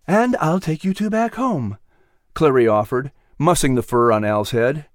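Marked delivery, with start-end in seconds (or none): 0.1-1.8 kind coachman character. Acted. Clary offers.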